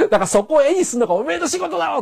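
retold rebuke. Scolding retold to animator.

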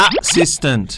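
"assistant" as uh-SIS-tant, slowly separated; model pronunciation. Shown as a demonstration. Teacher models word for helper, "assistant" as uh-SIS-tant. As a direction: start "assistant" with a short "uh". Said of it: "กรุณาลบออ".

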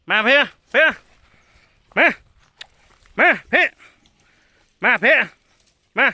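loud, high call in northern Thai. Real, not acted. Mahout calling elephant in northern Thai, loud. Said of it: "ต้องพูดภาษาเหนือฮะ".

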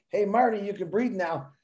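sing-song it like a friendly ringtone; fun phone tone. Pretend. Host voices the phone cheering Marty, soft and playful. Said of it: "Make it a fun tone".

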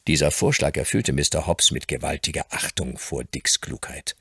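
normal talking voice

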